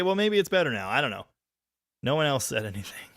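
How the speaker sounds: ordinary talk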